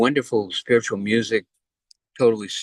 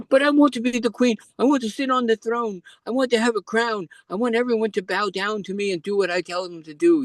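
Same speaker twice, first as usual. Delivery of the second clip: Elizabeth's voice; 11 semitones higher than usual. Retold or imitated. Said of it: "He said".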